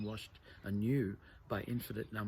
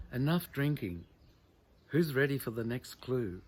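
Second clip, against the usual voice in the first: mother calling out; 3 semitones higher, 7 dB louder than usual. Acted. Mother calls the family to order.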